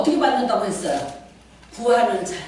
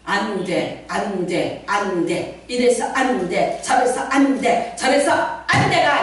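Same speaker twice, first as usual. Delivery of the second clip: mock complaining; 3 dB louder, slower than usual. Mocking a defeated attitude.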